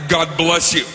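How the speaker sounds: pointed blessing. Retold or imitated. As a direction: say it so it means cover your mouth. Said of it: "I said it like that".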